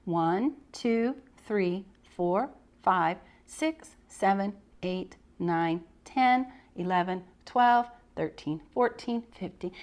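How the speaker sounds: put-on steady counting for children; slow counting aloud. Shown as a demonstration. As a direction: count each number out clearly for a class. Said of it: "together we would count".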